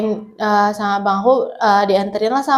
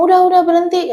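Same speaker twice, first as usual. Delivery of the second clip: higher, louder mock call to stop; a retold cry of stop, louder; mother calling stop; 7 semitones higher, 4 dB louder than usual. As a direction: imitate mom shouting for it to stop. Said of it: "kata mama aku tuh gitu".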